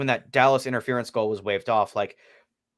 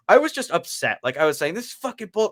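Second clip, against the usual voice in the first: retold anger; 5 semitones higher than usual. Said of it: "the most furious about a penalty".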